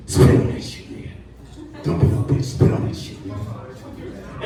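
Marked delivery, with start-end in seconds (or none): 0.1-3.4 breathy urgent whisper. Retold or imitated. Frederick Douglass egging him on, whispered. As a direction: hiss it into his ear. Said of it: "whispering in my ear".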